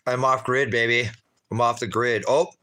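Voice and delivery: loud, high excited cry; excited shout. Real, not acted. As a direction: shout it out with joy. Excited outdoor cooking shout.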